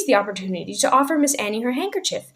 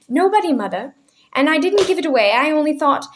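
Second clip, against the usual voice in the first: frightened daughter; 7 semitones higher, 5 dB louder than usual. A narrator's reading. Daughter defends herself frightened.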